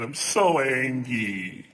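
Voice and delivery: very slow, dragged sulk. Acted. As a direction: sulk the words out slowly.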